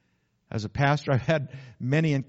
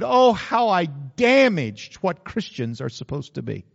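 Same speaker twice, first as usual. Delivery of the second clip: remorseful lament; 3 semitones higher, 6 dB louder, slower than usual. Retold or imitated. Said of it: "she said".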